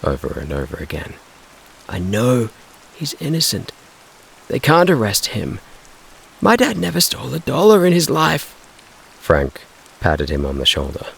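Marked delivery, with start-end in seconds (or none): 1.9-8.5 high, distraught defence; upset boy's protest. Acted. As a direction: insist through distress. Boy defending his father.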